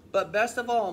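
lightly voiced cow, loud; a hint of a moo. A narrator's reading. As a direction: call out as a storybook cow. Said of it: "mooed Clarissa".

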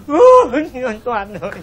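comic sob; mock wail. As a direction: wail the name out. Cry heard, wailing.

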